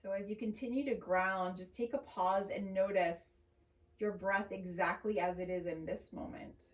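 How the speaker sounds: calm, unhurried yoga teacher voice; measured, soothing guidance with long pauses; guided meditation. Acted. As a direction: ease them gently into noticing the breath. Leads a grounding meditation.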